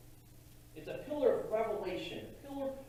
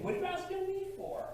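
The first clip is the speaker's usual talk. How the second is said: mock exasperation. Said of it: "It's like".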